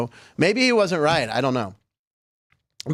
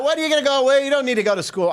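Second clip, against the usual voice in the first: a botched, hammed-up Philadelphia accent, pitched higher; failed Philly accent; 10 semitones higher, faster than usual. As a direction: try a Philly accent and miss it badly. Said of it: "I can't do a Philly accent".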